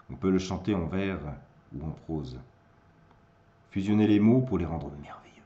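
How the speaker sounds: declaimed verse, swelling and falling; poem recitation. Acted. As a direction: proclaim the poem line by line.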